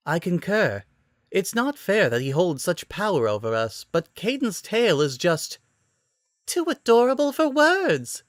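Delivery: high excited gush rising to a squeal at the end; excitedly. A narrator's reading. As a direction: build the gushing until it peaks on the last words. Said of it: "Sakura finished excitedly".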